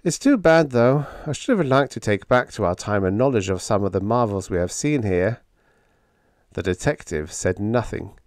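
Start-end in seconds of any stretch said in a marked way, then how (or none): 0.0-5.4 mildly wistful, starting high and settling; a touch of regret; wistful sigh. Acted. Technician regretting lost marvels, gently wistful. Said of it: "sighed wistfully".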